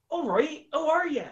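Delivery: high-pitched West Country greeting; Bristolian accent. Shown as a demonstration. Answering the host's request for Bristolian, high hammed-up Bristol accent. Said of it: "How about Bristolian?".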